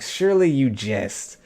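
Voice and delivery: slow, theatrical incredulity; mock-formal disbelief. Goblins replying to the hero's doubt, lightly mock-formal disbelief. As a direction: draw it out in mock-courtly surprise.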